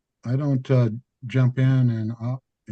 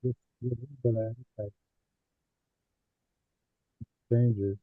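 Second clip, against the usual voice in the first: audio cutting out; choppy, breaking-up connection; corrupted glitchy audio; 6 dB quieter than usual. Real, not acted. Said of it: "Your audio's cutting out".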